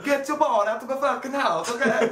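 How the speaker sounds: imitating an exasperated father yelling; mock angry dad. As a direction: scold it like a fed-up dad. Mocks dad yelling at daughter.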